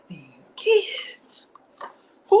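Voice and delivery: breathy whisper of exasperation; hushed mock despair; exasperated whisper. Real, not acted. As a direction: whisper it shaking your head. Exasperated about the kids.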